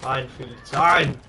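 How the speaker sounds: mock German accent. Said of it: "shouldn't do that in German accent".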